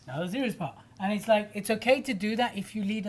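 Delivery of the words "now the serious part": dropping back, more subdued; mock serious announcement. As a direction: switch abruptly to the serious bit. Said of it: "disconnect between the, the humour and the direction".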